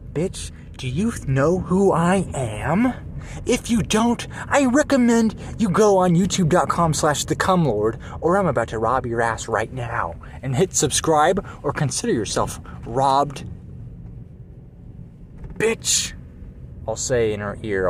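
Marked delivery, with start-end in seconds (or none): 0.1-13.4 bank robber. Pretend. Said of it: "Maybe I'll whisper to her". 15.6-16.1 high whispered insult. Pretend. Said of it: "I'll whisper it to her".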